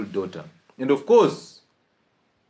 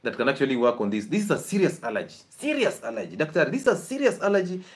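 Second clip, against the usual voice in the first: complaining mother; 2 semitones higher than usual. Retold or imitated. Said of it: "she's actually saying".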